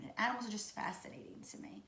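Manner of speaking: soft whisper on "The animals are just fascinating to me"; hushed, awed whisper. Real, not acted. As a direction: breathe it out in awe. Repeats phrase in a whisper.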